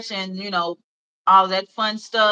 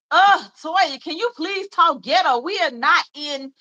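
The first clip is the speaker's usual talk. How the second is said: friends' teasing voice, higher; mocking her friends; 5 semitones higher than usual. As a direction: play the high-school friends teasing her, pitched up. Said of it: "and they would be like".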